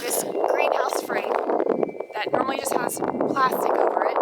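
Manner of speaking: rough, hoarse voice; talking with a hoarse voice. Real, not acted. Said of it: "please excuse my voice".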